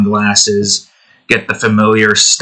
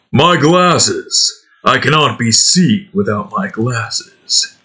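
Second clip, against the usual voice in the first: a hint of Duke's growl, less whiny; slower than usual. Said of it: "get into the Duke mindset".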